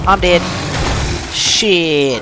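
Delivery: high loud cry of defeat; panicked shout. Real, not acted. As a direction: yell it as you die. Killed in game.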